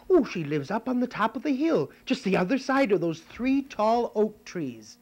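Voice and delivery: put-on eager little girl giving directions; Red Riding Hood. Girl telling the wolf the way, high and eager. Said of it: "And she said".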